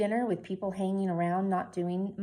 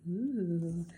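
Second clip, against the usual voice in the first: whispering; 2 semitones lower, 5 dB quieter than usual. Real, not acted. Whispered reaction.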